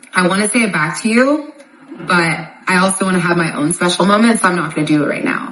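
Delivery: ordinary talk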